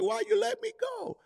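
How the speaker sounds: put-on a little kid protesting, voice way up; whiny child. Child to parent after falling, high and whiny. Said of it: "they're like".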